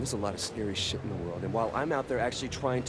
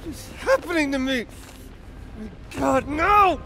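angry crying; 5 semitones higher than usual. Acted. Panicked transformation, crying out.

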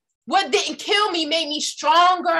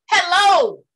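emphatic hello; 3 semitones higher, 5 dB louder than usual. Real, not acted.

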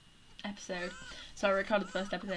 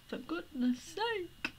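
exasperated sigh; 8 semitones higher, slower than usual. Real, not acted. Exasperated at babies.

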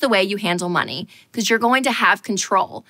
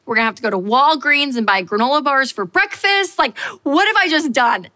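panicked thoughts; 4 semitones higher than usual. Retold or imitated. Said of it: "I was like".

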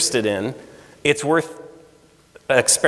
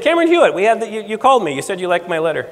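flustered insisting; 6 semitones higher, faster than usual. Retold or imitated. Insisting to a forgetful Rick.

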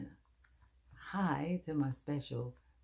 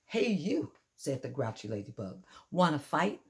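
grouchy challenge; 4 dB louder than usual. Acted. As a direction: pick a fight with a mantis. Grouchy ladybug picks a fight.

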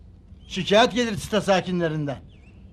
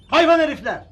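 loud, higher insult; angry cursing; 5 semitones higher, 5 dB louder than usual. Acted. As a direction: burst out cursing the vendors. Resident cursing the vendors.

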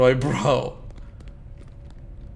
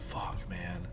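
scared whisper under the breath; 7 semitones lower, 12 dB quieter than usual. Real, not acted. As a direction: hush it, spooked. Creeped out in dark factory.

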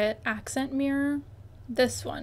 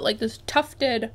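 talking around a mouthful of ice; mouth full. Real, not acted. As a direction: chew ice while saying tufted. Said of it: "sorry, I'm chewing on ice".

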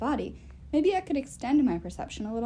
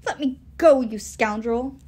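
indignant shout; 7 dB louder, slower than usual. Acted. Fish struggling to escape.

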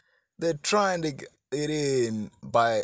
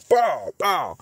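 tag; 3 semitones higher, 5 dB louder than usual. Retold or imitated. Imitates punches landing.

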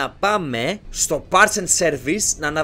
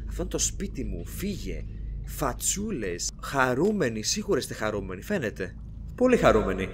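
a hint of a haunted-house ghoul, teasing; creepy mock voice; 5 semitones lower, 7 dB quieter than usual. Gamer mocking the creepy paintings, low spooky voice.

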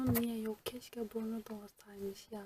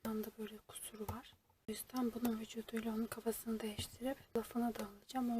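whisper. Real, not acted. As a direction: hush it as in an ASMR video. ASMR whispering unboxing. (kutu açarken fısıltıyla konuşuyor)

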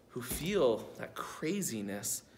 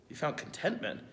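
incredulous echo; 4 dB quieter than usual. Retold or imitated. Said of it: "What are you talking about you're content?".

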